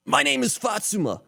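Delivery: ghost hunter voice. Acted. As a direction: play a dramatic ghost hunter intro. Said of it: "I just sounded like a ghost hunter".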